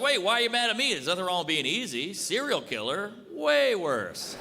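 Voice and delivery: high-pitched mock indignation; indignant protest. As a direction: argue back, baffled and put out. Acted argument with his offended date.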